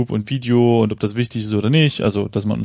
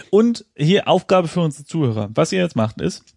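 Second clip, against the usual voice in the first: teacher setting homework; strict teacher; 5 semitones higher than usual. Pretend. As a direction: announce the task like a teacher. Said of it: "Das sind ja richtig Hausaufgaben".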